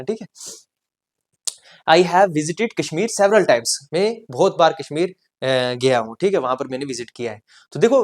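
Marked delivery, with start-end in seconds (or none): 1.9-3.7 slow dictation. Shown as a demonstration. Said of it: "teacher dictates example".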